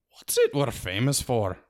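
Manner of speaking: a hint of a rallying Scots pixie; a leader calling to his crowd; lightly voiced Feegle call. A narrator's reading. Feegle leading a chant.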